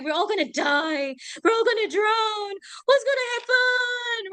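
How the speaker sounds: mock wail, climbing very high; screaming mother. Shown as a demonstration. Teacher acting a mother who fears drowning, melodramatic wail. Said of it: "the mother is screaming at this point".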